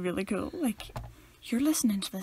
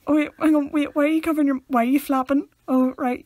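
puzzled questioning; 5 semitones higher, 6 dB louder than usual. Retold or imitated. Acting out noticing someone burping.

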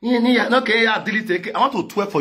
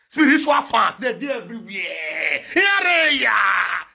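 laughing shout; 4 semitones higher, slower than usual. Real, not acted.

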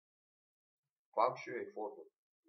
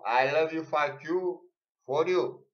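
mock fan yell; 6 semitones higher, 10 dB louder than usual.

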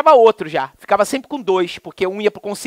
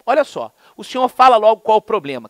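rude clerk; 4 semitones higher, 4 dB louder than usual. Retold or imitated. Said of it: "aquele cara é estúpido, grosso".

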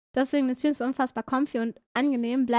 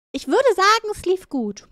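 higher, ironic "würde"; 6 semitones higher than usual. Shown as a demonstration. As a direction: say "Ich würde sagen" high and knowing. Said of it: "Und ich würde sagen, es lief gut".

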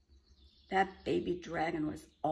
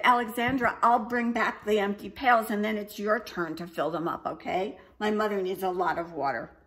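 put-on louder, bossy young dragon; baby dragon voice; 2 semitones higher, 8 dB louder than usual. A narrator's reading. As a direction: hand over the chore as the dragon. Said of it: "And he said".

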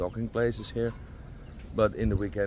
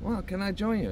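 quoting Sylvain; 11 semitones higher than usual. Retold or imitated. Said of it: "And he said".

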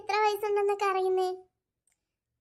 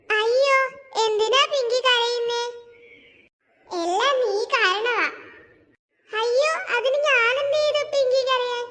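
alarmed protest; 5 semitones higher, 3 dB louder than usual. Acted. Kathu alarmed at being blamed.

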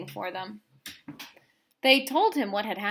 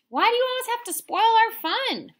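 angry scolding; 13 semitones higher, 5 dB louder, faster than usual. Acted. Circle scolds rule-breaking friend.

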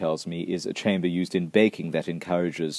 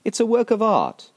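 high, louder gushing over the picture; mock gushing; 6 dB louder than usual. Host admiring an old photograph, hammed-up gushing. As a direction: swoon over it like an art lover.

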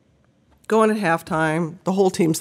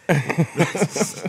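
mock walk of shame; 3 semitones higher, much slower than usual. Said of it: "this is the walk of shame".

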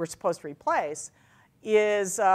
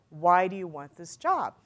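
slower, measured interview question; deliberate repeated question. Retold or imitated. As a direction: spell out "Why do you want this job" unhurriedly.

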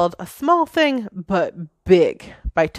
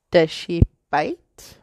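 put-on anxious child question; slower than usual. A narrator's reading. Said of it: "asked Lizzie anxiously".

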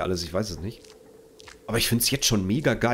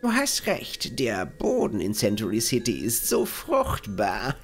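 NPC voice; 8 semitones higher, slower than usual. Acted. Reads NPC dialogue aloud.

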